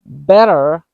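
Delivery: better with a quick flapped D for the T; fast D sound. Shown as a demonstration. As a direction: tap the T in better, American style. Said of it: "Let me demonstrate it".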